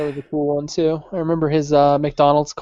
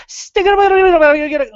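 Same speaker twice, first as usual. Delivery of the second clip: high, drawn-out mock rapper line; 13 semitones higher, 5 dB louder, much slower than usual. Mocking a Canadian rapper, stretched high mock line. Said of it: "where he's like".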